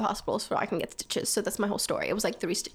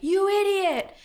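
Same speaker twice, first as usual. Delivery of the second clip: high-pitched mock yell of an insult; retold scream; 9 semitones higher, 4 dB louder, slower than usual. Someone screaming at her after the fall, mock yell. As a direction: yell it higher, imitating a screamer. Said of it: "I hear someone screaming".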